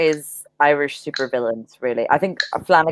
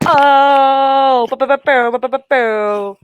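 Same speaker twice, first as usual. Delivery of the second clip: mocking crowd; 7 semitones higher, 3 dB louder, slower than usual. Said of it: "everybody was like".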